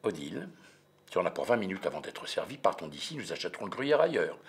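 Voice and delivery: calmly coaxing Odile to leave; measured, calm. Acted. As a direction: keep it even and reasonable. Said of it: "je m'exprime avec mesure".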